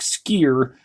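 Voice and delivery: "skeer" said with a long ee vowel, rhyming with "near"; southern skeer. Retold or imitated. Vlogger showing how the general said scare, "skeer" with ee. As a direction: stretch scare into "skeer", the ee sound. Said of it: "it sounded more like".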